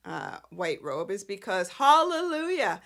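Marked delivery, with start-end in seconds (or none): 1.7-2.8 high, loud celebratory cry; jubilant. Real, not acted. Fan celebrating a long-awaited costume change, jubilant. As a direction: sing its praises, voice up and loud.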